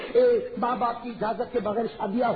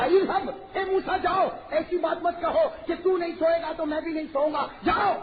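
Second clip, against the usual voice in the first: God rebuking Moses, raised and stern; angry dismissal; 7 semitones higher than usual. Acted. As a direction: send Moses away in displeasure. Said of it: "تھوڑے ناراض ہوئے".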